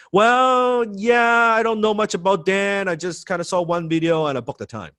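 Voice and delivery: doubtful prospect. Acted. Acting an unsure, cold prospect.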